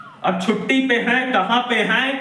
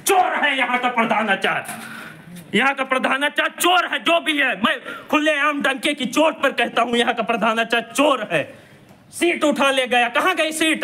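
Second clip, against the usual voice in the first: indignant reporter shouting the charge; angry accusation; 4 semitones higher than usual. Real, not acted. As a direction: denounce the thief headmaster openly. Accusing headmaster of theft.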